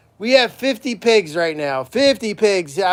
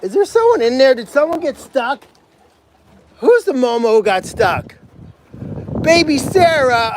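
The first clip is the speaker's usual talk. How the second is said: calling stuck pig; 7 semitones higher, 3 dB louder than usual. Real, not acted.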